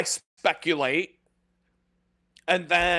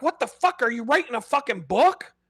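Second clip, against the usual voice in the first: much higher, incredulous what the fuck; mock outrage at someone typing forever; exasperated outburst; 7 semitones higher than usual. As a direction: squeal it out at the endless typing dots. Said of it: "And you're like".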